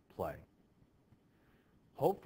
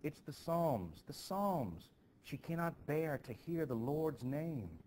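fearful accuser; 6 semitones higher, slower than usual. Acted. Adult reads fit as witchcraft.

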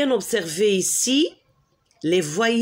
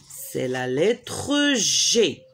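slow teaching delivery; 4 semitones lower, slower than usual. Shown as a demonstration. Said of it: "comment on prononce".

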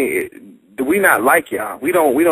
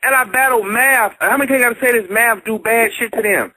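high, heated insistence; high, animated, insistent arguing; heated argument; 10 semitones higher than usual. Real, not acted. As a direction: hammer the point home. Heated argument about booing.

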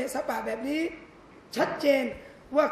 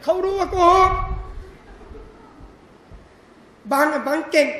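higher, louder gushing praise; sweet flattering wife; 4 semitones higher, 5 dB louder than usual. Acted. Wife praising husband to melt him, gushing high voice. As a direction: coo it like a doting wife. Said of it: "แกล้งโง่บ้าง".

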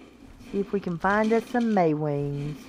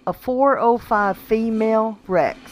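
amazed; 2 semitones higher than usual. Real, not acted. Gamer spots a level four oh five Rex, amazed. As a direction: announce the level in open disbelief. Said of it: "How does that happen?".

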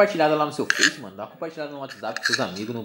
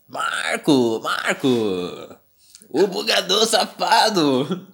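yelling; 4 semitones higher, 4 dB louder, much slower than usual. Real, not acted. Yelling at cheating player.

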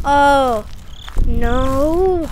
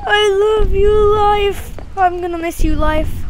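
mock farewell; 7 semitones higher than usual. Thinks death is near.

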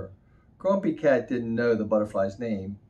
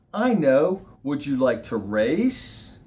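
bird voice; 4 dB louder, slower than usual. Acted. Bird proposes a race.

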